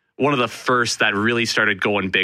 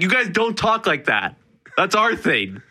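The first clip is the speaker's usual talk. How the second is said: mock scolding; 7 semitones higher than usual. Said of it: "'Cause it's like".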